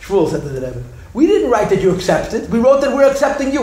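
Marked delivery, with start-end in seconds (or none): 1.1-3.6 emphatic protest. Retold or imitated. Shmuel argues with the Rebbe.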